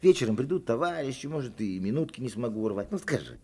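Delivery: quick, eager coaxing. Acted. Boy coaxing the girl, quick and eager. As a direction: hurry her into telling. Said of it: "начинаю уговаривать её".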